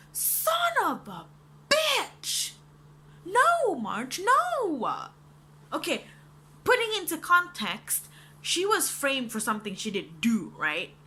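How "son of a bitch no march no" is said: high, loud screaming protest; anguished yell. Retold or imitated. Viewer shrieking at March on screen, high and loud. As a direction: scream at the character in despair.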